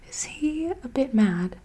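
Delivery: a touch of uncertainty; uncertain question. Acted. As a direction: ask unsure, half afraid of the answer. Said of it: "he asked Percy uncertainly".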